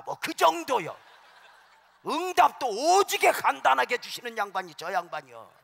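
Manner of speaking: loud, high, shouting preacher; full-force preaching. Acted. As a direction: blast it at the congregation. Builds to a shouting climax.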